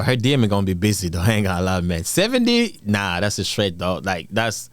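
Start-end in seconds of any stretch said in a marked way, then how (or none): 2.0-2.8 incredulous. Real, not acted. Streamer incredulous at the age.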